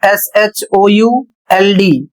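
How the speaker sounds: slow letter-by-letter spelling; spelling it out for students; spelled out. Shown as a demonstration. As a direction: spell एसएचओयूएलडी slowly, letter by letter. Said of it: "अगला शब्द है".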